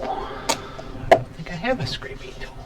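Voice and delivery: slow whispered aside to himself; a quiet let-down murmur while searching; muttered whisper. Real, not acted. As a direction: mutter it under your breath, slowly.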